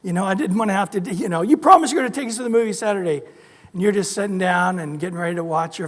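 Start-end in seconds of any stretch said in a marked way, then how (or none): 1.4-3.2 put-on fast, higher kid's whine; mild whining child; nagging kid. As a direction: rattle it off like an impatient child. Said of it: "your kids annoyed you by going".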